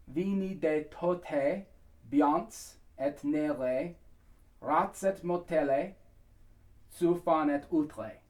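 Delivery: slow, deliberate syllables with pauses between phrases; talked-through lyrics. Shown as a demonstration. Coach talking singers through the hardest part, slow and clear. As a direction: say each foreign word out loud, slowly and clearly. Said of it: "I'm just gonna talk through it".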